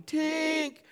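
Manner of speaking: high loud call of the dog's name; searching the woods, yelling for the lost dog. Retold or imitated. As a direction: shout it into the woods. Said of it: "We're yelling".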